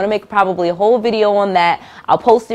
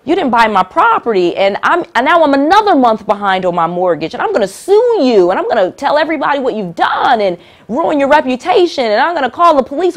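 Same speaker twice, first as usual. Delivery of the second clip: raised, higher, heated mock complaint; angry seller; 5 semitones higher than usual. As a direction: play the furious seller threatening to sue. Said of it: "that seller gets really angry and says".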